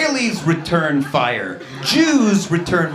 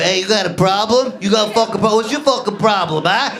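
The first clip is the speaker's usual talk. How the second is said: loud, a hint of tough-guy menace; New York Italian tough guy; 3 semitones higher, 3 dB louder than usual. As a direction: pick a fight, lightly played. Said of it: "Always like".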